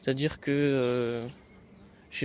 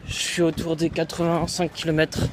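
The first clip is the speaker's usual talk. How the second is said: while running; 3 semitones higher than usual. Real, not acted. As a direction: speak mid-run, pushing breath. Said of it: "je suis re en train de courir".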